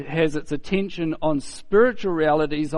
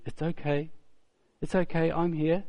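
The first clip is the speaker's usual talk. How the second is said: lightly acted gentle comfort; a touch of tender reassurance; soothing reassurance; 2 semitones higher, 4 dB quieter than usual. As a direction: softly soothe a dozing friend. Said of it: "strokes her arm and pats her hand".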